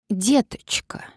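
whispered, high quavering doll voice; an old lady playing a little doll; thin doll-like voice. A narrator's reading. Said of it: "продребезжала старушка тонким, ненатуральным, почти кукольным голосом".

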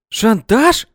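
loud, high, commanding bark; barked teacher voice. A narrator's reading. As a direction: snap it like a strict schoolteacher. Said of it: "гаркнула ... преподавательским голосом". (рявкнула учительским голосом)

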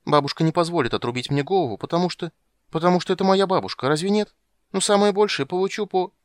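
put-on high, loud childish worry; a girl talking herself into it; anxious little girl. Ciri to Geralt, high and anxious. Ciri's voice.

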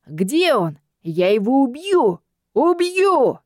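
madman building to a high roar; rage, rising to a yell; crazed brute. A narrator's reading. Madman charging with cleaver.

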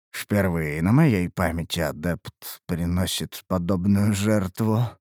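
low, aged spirit voice, faintly confused; an ancient spirit caught off guard; old spirit, slightly lost. A narrator's reading. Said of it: "В старческом голосе Царефа ... лёгкая растерянность". (низкий старческий голос духа, растерянно)

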